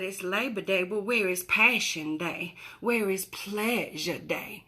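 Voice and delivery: slow, lightly voiced sultry-style character; Honey. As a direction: play a character, drawing out the key words slowly. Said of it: "and she said".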